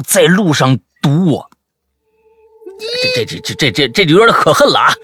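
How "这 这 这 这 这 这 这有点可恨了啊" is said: loud, spluttering mock outrage; stutter, then burst out indignantly; exasperated outburst after a stammer; stammering indignation. Mock indignation at being blocked.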